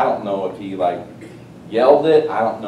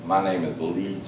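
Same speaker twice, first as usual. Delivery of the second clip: freaky possessed man; 3 semitones lower, 6 dB quieter than usual. Retold or imitated. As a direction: lightly imitate a movie's possessed man, hushed. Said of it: "That's freaky".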